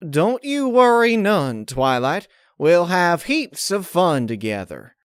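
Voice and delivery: high, slow, anxious reassurance; a nervous lie dressed as comfort; nervous false cheer. A narrator's reading. Applejack lies to Twilight, nervous false cheer. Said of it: "looked nervously at Pinkie Pie".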